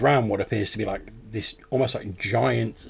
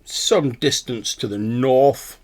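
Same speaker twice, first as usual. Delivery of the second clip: pedantic owl; 2 semitones higher, 4 dB louder than usual. Acted. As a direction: savour the term like an owl professor. Game master plays the owl.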